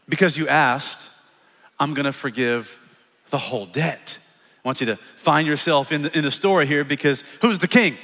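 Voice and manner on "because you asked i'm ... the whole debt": gentle forgiveness. Acted. King forgiving the servant who asked, gentle and solemn.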